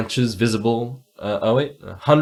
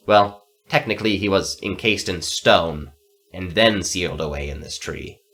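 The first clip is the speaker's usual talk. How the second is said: put-on grumpy old necromancer. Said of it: "said the necromancer".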